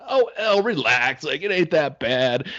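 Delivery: imitating his wife calling from the other room. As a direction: call out to calm the daughter down. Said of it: "My wife's, like".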